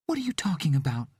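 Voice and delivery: fast, high, urgent whisper. Acted. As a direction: hiss the question under breath. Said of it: "Carol whispered".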